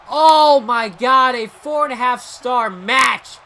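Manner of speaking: excited shouting play-by-play; wrestling commentator. Acted. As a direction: yell the near-fall like a commentator. Commentating the match climax.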